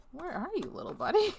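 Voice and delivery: sing-song call to a lost pet; high calling voice. Pretend. Player calling for a lost puzzle piece, high sing-song call.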